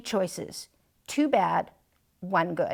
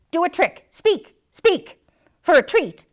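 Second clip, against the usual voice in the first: high sing-song coaxing voice; owner coaxing; 9 semitones higher, 6 dB louder than usual. Retold or imitated. Dog imitating owners coaxing a trick, high. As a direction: coax it like an owner to a pet. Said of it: "Then they tell me".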